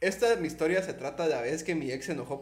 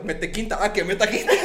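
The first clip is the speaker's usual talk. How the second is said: mock shout; 4 semitones higher, 8 dB louder than usual. Acts out the driver.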